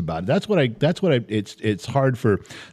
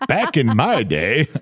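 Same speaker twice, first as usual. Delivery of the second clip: laughing; 2 semitones higher, slower than usual. Real, not acted. Bursts into laughter.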